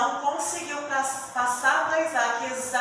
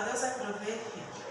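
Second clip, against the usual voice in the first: softly reassuring; 6 dB quieter than usual. Acted. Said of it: "E ele fala".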